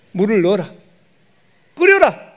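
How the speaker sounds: acted prophet's orders, building to a high shout; rising shouted commands; loud command.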